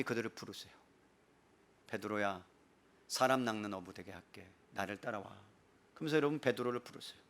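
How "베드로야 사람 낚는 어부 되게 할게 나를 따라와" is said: low, hushed voice of Jesus; gentle call. Acted. Jesus calling fishermen to follow him, low and soft. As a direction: call him softly, deep and unhurried.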